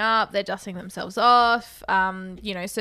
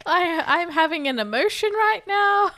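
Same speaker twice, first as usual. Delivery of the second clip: laughing; 7 semitones higher than usual. Real, not acted. Laughing at own sentimentality.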